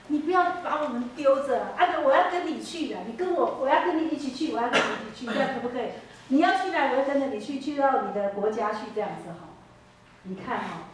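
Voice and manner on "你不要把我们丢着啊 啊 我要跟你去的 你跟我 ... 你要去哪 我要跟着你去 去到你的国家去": pleading daughter-in-law. Acted. Daughter-in-law begs to follow Naomi.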